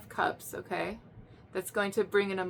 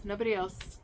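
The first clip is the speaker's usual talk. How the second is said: Nobody else repeated quietly, falling; softer echo; 5 dB quieter than usual. Real, not acted. Reader quietly repeating to the listener. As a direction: let the echo drop off softly. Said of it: "repeated softer".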